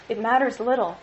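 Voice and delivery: usual speaking voice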